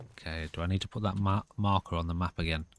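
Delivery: whistling nose. Real, not acted. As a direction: air whistling through the nose. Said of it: "Sorry if you hear my nose whistling".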